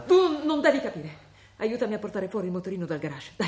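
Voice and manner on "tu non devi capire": slow, higher, pointed "tu"; stern mother cutting off questions; firm, slow. Acted. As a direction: shut him down deliberately. Mother shutting son down.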